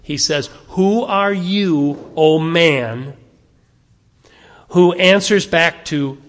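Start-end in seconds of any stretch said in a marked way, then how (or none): 0.7-3.2 slow, heavy stress on "Who are you, O man"; emphatic quote. Shown as a demonstration. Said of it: "watch the emphasis in this little verse".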